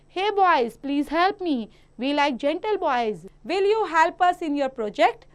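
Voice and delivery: slow, deliberate reading of example sentences; textbook read-aloud. Acted. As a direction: read each sentence out slowly for young pupils. Reads exercise sentences to pupils. (बच्चों के लिए धीरे-धीरे वाक्य पढ़ना)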